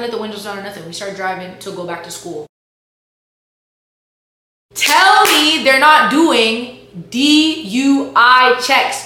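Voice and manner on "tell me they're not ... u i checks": loud, high, slow disbelief; stretched-out outraged shout; incredulous outburst. Real, not acted. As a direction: drag it out like you can't believe it. Outraged at marijuana DUI checkpoint.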